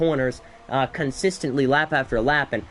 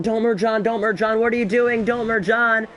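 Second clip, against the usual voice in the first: urgent pleading; 5 semitones higher than usual. Real, not acted. Urging a car not to merge.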